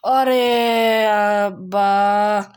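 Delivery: loud, long drawn-out groan; frustrated cry. Real, not acted. Player killed again by his opponent, frustrated cry. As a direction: wail it out in exasperation.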